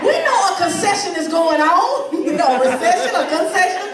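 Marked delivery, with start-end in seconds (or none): 0.0-1.9 high-pitched cheery phone voice; mock grateful caller. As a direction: gush thanks as an imagined bill collector. Imagined grateful bill collector calling.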